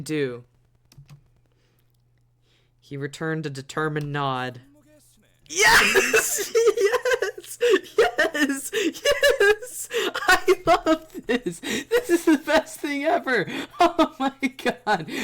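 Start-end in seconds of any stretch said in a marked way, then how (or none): 5.5-15.1 high squeals through laughter; laughing delight. Real, not acted. Overjoyed at funny game scene.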